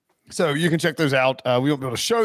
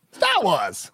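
mock Boston accent; 4 semitones higher than usual. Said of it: "Star Wars is a good Boston word".

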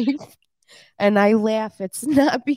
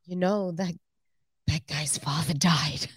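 low, halting delivery on the verge of giggles; lowered voice, holding back laughter; attempted straight face; 5 semitones lower, 4 dB quieter than usual. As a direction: try to say it solemnly before cracking up. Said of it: "say it with a straight face".

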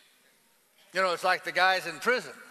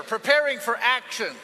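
Preparing for Action, stress on Preparing, falling; PREPARING hit hardest, then drop; preacher leads the congregation in saying the title; call to repeat; 3 semitones higher, 6 dB louder than usual. Shown as a demonstration. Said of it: "Tell your other neighbor".

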